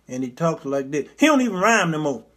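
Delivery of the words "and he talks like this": low, soft, stiff-mouthed mumble; mock sluggish old preacher murmur; Jesse impersonation. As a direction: talk as if Botox froze your whole body. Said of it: "like Botox and took over".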